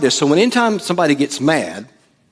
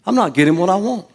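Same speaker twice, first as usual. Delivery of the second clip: higher, faster confession; emphatic confession; 7 semitones higher, faster than usual. Shown as a demonstration. Preacher having the congregation confess aloud. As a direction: blurt it out. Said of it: "if somebody said that to you".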